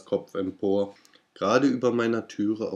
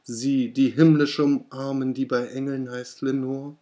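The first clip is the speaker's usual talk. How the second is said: much higher, louder frantic plea; desperate cry; 4 semitones higher, 4 dB louder than usual. Acted. Narrator begs the raven about Lenore, higher and louder. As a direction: plead with rising desperation. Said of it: "rief ich".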